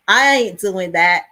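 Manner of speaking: loud, punchy touch of Cockney; Cockney accent. Shown as a demonstration. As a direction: toss out Cockney street slang, loudly. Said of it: "Cockney accent, like, you know".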